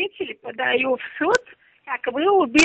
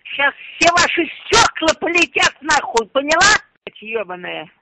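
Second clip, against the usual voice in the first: furious threats; raging at the caller; angry; 2 semitones lower than usual. Real, not acted.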